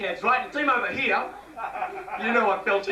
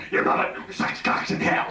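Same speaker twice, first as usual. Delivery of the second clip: put-on low rasping possessed-girl voice; demon voice; 3 semitones lower than usual. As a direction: growl it like the Exorcist demon. Exorcist demon voice quoted.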